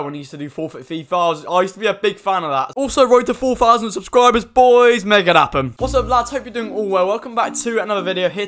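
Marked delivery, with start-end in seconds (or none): 2.7-5.7 hype call. Real, not acted. Channel hype call to viewers.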